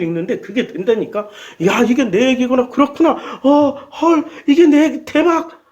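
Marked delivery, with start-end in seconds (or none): 1.7-5.6 rising excitement ending in a high "대박"; playful realization, getting higher; acted realization. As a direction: build up delight.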